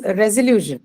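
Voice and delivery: resolution with stress on LU. Shown as a demonstration. Teacher models resolution for the class, stressing LU. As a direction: lean on LU in resolution, then fall. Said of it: "That is on lu".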